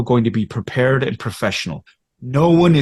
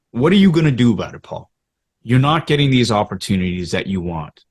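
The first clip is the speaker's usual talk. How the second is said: fast self-challenge. Shown as a demonstration. To himself as a young actor, fast pressing challenge. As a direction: push yourself, quick and pressing. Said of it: "it's that whole idea of".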